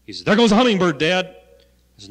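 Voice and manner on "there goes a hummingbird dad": imitating little son. Little son's voice in a story.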